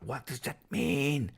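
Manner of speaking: high, slow, drawn-out plea; exasperated bafflement. Acted. Streamer can't decode a viewer's comment, exasperated. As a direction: stretch the question out in helpless confusion.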